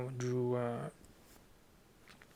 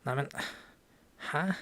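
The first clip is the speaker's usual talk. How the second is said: indignant disbelief. Shown as a demonstration. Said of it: "So it would go".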